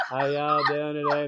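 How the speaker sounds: put-on Southern accent. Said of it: "couldn't understand that southern accent".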